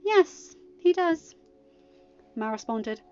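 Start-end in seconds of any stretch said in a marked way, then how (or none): 0.0-1.3 cool. A narrator's reading. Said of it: "her voice as cool as Elsa's".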